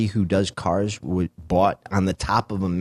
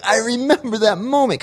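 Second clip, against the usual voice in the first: retold crying; 14 semitones higher, 4 dB louder than usual. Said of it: "I immediately just busted out crying".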